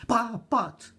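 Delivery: high, loud stammer; a boy scrambling to interrupt; stammering ash boy. A narrator's reading.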